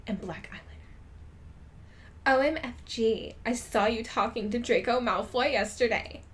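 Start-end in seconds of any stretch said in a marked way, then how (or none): 2.2-6.2 excitedly. Acted. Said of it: "she said excitedly".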